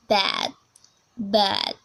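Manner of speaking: American "bad", open "æ"; demonstrated American "bad"; American accent. Shown as a demonstration. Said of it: "A little different".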